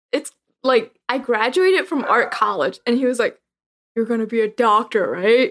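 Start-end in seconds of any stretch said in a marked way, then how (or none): 3.9-5.5 play-acted father voice in a dead-serious tone. Retelling the dad's reaction to an art college graduation, mock-serious tone. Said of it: "But with a serious tone".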